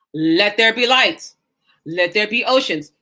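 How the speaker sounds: slow, measured decree; measured quote of God creating; solemn creation command. Acted. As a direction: speak it slowly, each word given room. Quotes God's words of creation.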